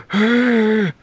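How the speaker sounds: smaller mock gasp. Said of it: "It should be more like".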